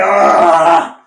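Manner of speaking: imitated groan of exasperation; long mock groan; exasperated groan. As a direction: groan like a fed-up mentor. Mentor groans at his protest.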